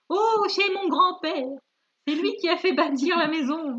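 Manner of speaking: loud, high, stretched-out opening cry; delighted exclamation. Acted. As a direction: proclaim it as the thrilled storybook grandmother. Acted grandmother's line in story.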